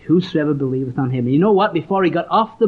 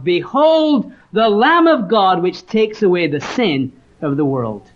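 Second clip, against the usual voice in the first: crying out; 3 semitones higher, slower than usual. Retold or imitated. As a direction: call it out to test the echo of an empty hall. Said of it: "at the top of his voice he cried out".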